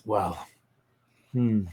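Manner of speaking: lightly voiced man, low and soft at the end; Tito. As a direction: muse aloud as the lover, a touch hushed. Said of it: "this low masculine voice".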